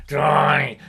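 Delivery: a hint of his father calling out; imitating dad. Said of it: "that's the way he talked".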